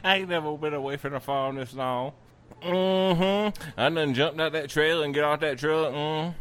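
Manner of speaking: lightly voiced cow, quick patter; a hint of a talking cow, rattled off; cow character. Host redoing Princess the cow's complaint, lightly put-on. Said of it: "She's like".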